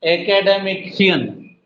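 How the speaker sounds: एकेडमिशियन said slowly. Shown as a demonstration. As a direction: stretch it a bit. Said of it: "एकेडेमिशियन।". (धीरे से)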